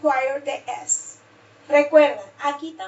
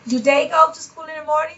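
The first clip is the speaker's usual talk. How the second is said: a quick rising question, "go" stressed and "morning" going up; question intonation; 5 dB louder, faster than usual. Shown as a demonstration. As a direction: lift the voice at the end as a question. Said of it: "So you have the intonation".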